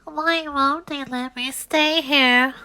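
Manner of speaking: slow, high, hurt little voice; lonely, asking no one; sad to himself. Acted. Ugly duckling wonders why he's unwanted, slow and hurt. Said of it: "said the ugly duckling to himself".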